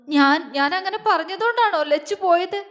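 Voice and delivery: high-pitched, pained questioning; tearful guilt. Acted. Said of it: "പൊട്ടിക്കരഞ്ഞുകൊണ്ട്".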